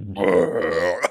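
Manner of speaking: low rumbling burp noise; drawn-out fake burp; imitated burp. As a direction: blurt out a mock belch. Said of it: "I was like".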